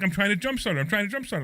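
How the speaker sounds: retold flustered insistence; imitated panic. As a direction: imitate a friend repeating himself in a mild panic. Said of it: "He's, like, really in a panic".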